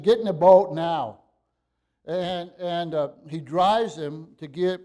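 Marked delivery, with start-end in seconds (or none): 0.0-1.2 loud, urgent command; forceful order. Acted. Preacher voicing Jesus forcing disciples aboard, loud command. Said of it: "it's like he said".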